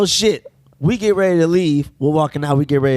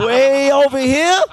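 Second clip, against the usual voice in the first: drawn out exaggeration; 6 semitones higher, slower than usual. Showing crooked eye, drawn out.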